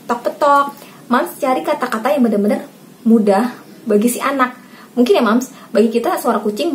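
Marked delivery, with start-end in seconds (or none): 0.1-0.9 higher-pitched "tok, petok" clucking; imitated chicken cluck. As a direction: mimic a hen for a child. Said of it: "Suara ayam". (menirukan kokok ayam betina)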